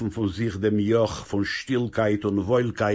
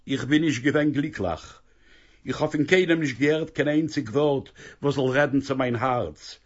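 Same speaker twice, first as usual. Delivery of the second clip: lightly voiced young woman, higher, pouring her heart out; a daughter defending her happiness, a bit higher; higher young woman's earnest plea; young daughter Basha Beila; 5 semitones higher than usual.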